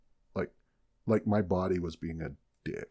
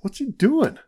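higher, louder mock onlooker; puzzled onlooker; 12 semitones higher, 7 dB louder than usual. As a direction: gossip about the noise in a raised voice. Imagined people outside the tank.

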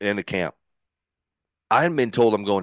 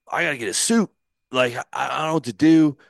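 higher, louder, mock-panicked outburst; flustered panic; 5 semitones higher, 6 dB louder than usual. Pitcher to his ex-wife about needing a suit, flustered. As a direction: fret aloud, at a loss what to do. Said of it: "brain's spinning".

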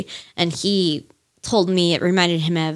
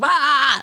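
a short, higher mock screamo yelp; hammed-up emo scream, higher; 7 semitones higher than usual. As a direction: imitate a screamo scream, not full force. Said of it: "like, the screamo scream".

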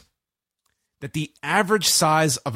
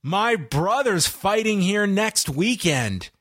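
slow, raised-pitch imitation of a wrestler; mock crowd hype; 6 semitones higher, slower than usual. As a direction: hype the arena, drawing it out.

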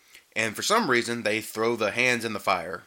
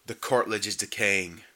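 mock calm voice; 2 semitones lower than usual. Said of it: "it's the most calm voice ever".

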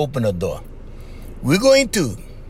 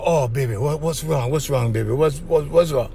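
mock fussing; 5 semitones lower than usual. Shown as a demonstration. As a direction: play the anxious boyfriend hovering over her. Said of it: "you cannot go up to her and".

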